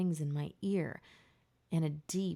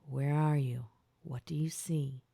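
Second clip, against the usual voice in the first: soft, hushed question fading to a whisper; quietly; 3 semitones lower than usual. A narrator's reading. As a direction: ask gently under the breath. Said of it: "Gabe said quietly".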